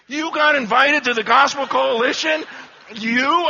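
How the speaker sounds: astonished, emphatic questioning; incredulous. Retold or imitated. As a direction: imitate a stunned colleague questioning it. Colleague stunned at the invitation.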